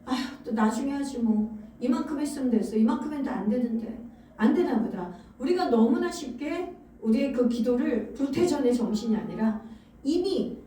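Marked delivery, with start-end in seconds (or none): 0.0-5.1 weary giving up. Retold or imitated. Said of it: "포기하냐면".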